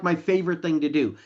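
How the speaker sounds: ordinary delivery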